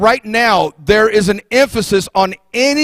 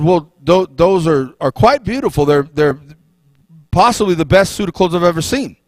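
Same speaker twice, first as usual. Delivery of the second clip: lower, hesitant fawning courtier; oily scheming vizier; 4 semitones lower than usual. Acted. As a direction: stammer out the flattery, careful not to look stupid. Vizier flattering the king's empty suit.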